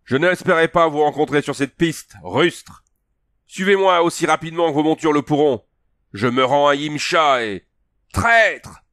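voix haute et forte, le dernier mot jeté; Conan qui hurle. Acted. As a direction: appeler la troupe au loin, d'une voix puissante. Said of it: "Le hurlement lui fit". (Conan hurle ses ordres aux cavaliers en contrebas)

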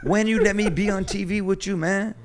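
high, put-on French accent; playful French accent impression. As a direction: ham up a pushy French chef in a French accent. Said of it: "Let's hear the French accent".

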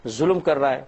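quick, needling devil's taunt, lightly voiced; Satan's taunting whisper. Satan taunting a grieving believer, a quick, lightly voiced jeer. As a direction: rush the jeer like a tempter in the ear. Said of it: "شیطان فوراً کان میں آ کے کہتا ہے".

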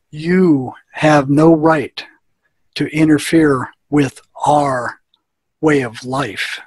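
imitating a possessed patient, slow and deliberate; retold eerie voice. Patient's voices speak to the psychologist, slow mock-ominous voice. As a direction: drag each word out like another being speaking. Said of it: "his voice tone changes ... just a little bit lower".

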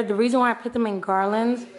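speech blurred by a numb mouth. Real, not acted. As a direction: talk as if your mouth is still numb. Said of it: "my mouth is numb".

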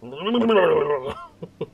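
loud wobbling jowly burble; mock blubbering noise. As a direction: blubber noisily like a big cartoon boss. Jokes about Boss Nass.

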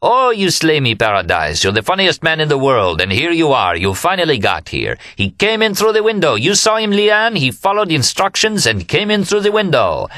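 high, exultant crowing over a friend; laughing delight. A narrator's reading. Remy tells Leanne about his funny friend, exultant crowing. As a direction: gush it out, climbing to high cries.

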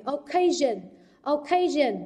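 "occasion" stressed on CA, falling after; second-syllable stress. Shown as a demonstration. Teacher modelling word stress for students, "occasion" stressed on CA. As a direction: lean on the middle syllable of "occasion". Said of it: "trọng âm rơi vào âm tiết thứ hai".

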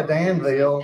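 "Danville" ending in a long "veel"; Southern pronunciation. Shown as a demonstration. Alabama native confirming what sounds Southern, "Danville" as Dan-veel. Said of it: "Danville sounds Southern".

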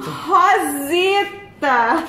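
very slow, high teasing call; drawn-out teasing call. Pretend. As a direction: stretch the name out, high and mocking.

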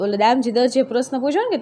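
ordinary talk

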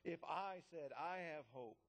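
each "I" stressed. Acted. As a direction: put the weight on both "I"s. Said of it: "I emphasize the word".

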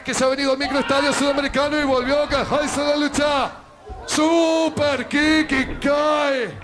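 lively ringside play-by-play; wrestling commentator. Acted. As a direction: call the match live, building.

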